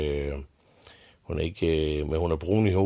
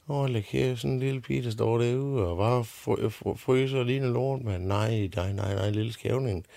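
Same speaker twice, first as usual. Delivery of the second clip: dronningen; 6 semitones higher than usual. Acted. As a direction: coo it out like a fussing queen. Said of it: "siger hun". (dronningen kurrer højt til den lille pige)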